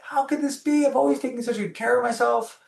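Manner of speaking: high, wavering mock sob of disbelief; half-acted tearful pleading; retold crying. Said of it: "start crying".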